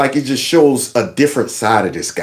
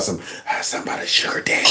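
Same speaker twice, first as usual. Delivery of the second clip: mock whisper; 9 semitones lower, 10 dB quieter, faster than usual. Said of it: "let's continue hearing".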